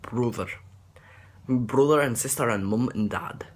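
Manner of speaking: "Brother" with an oo-like first vowel; Scottish "Brother", said as "broother"; Scottish pronunciation. Shown as a demonstration. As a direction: round the vowel in "Brother" towards "oo". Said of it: "or oo when you say brother".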